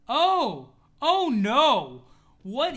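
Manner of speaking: loud, high shocked cry; shocked outcry. Real, not acted. Streamer horrified by a mutant creation, shocked outcry. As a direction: yelp in horror at the creation.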